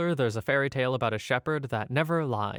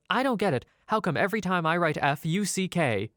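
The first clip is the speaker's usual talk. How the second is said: frustrated; 5 semitones higher than usual. Retold or imitated. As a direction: throw up your hands in frustration.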